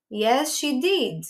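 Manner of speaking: very slow, deliberate short answer; slow model answer. Shown as a demonstration. Teacher models the short answer for students, very slow. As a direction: lay each word down for the class. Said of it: "Então, eu digo".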